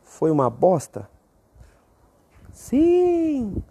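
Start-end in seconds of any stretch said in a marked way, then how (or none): 2.5-3.6 high, exaggerated shout of yes; answering his own question theatrically; emphatic yes. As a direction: sing out the answer.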